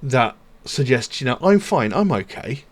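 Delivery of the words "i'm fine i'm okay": mock bright, higher and louder I'm fine; a put-on cheer that hides the pain; fake cheerful. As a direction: chirp it like a brave face. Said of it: "put up this sort of facade".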